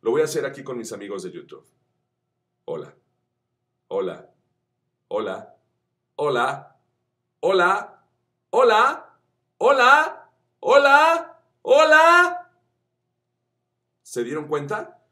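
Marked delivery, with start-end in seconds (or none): 2.7-12.4 each hola higher and louder, ending in a high shout; rising scale. Shown as a demonstration. Vocal coach showing YouTube friends a scale from mid tone to a high shout. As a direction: climb the tonal scale from mid to top. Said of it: "desde el tono medio".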